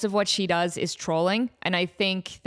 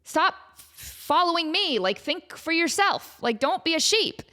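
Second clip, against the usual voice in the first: movie star pleading; 7 semitones higher, slower than usual. Retold or imitated. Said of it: "she has that moment".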